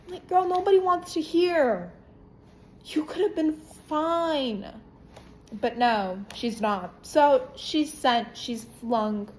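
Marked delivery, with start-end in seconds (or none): 0.1-4.7 laughing while talking; words bubbling through a laugh; amused, half-laughing jab. Real, not acted. Laughing at the character.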